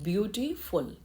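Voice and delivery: ब्यूटीफुल said in separate syllable chunks; teacher sounding out ब्यूटीफुल part by part; broken into syllables. Shown as a demonstration. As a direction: break ब्यूटीफुल up so its syllables can be counted. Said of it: "बोल के देखिए".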